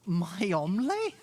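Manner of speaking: "omelette" ending in an open "lay" sound, drawn out as a question; questioning "omelette", final T left off; dropped final T. Real, not acted. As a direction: ask "omelette" slowly with no T at the end, voice rising. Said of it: "making her forget the T".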